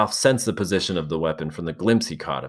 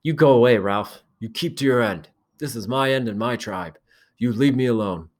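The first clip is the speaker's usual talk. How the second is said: shouting; 5 semitones higher than usual. A narrator's reading. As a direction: shout him off, claiming your ground. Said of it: "Jack shouted above the noise".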